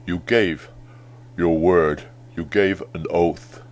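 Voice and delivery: over-enunciate every word; James Earl Jones voice. Shown as a demonstration. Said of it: "Exaggerate those mouth movements yourself to copy him".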